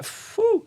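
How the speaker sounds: high airy whistle-like exhale; acted phew of overwhelm; blown-out phew. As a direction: blow out a long breath. Acting his reaction to big news.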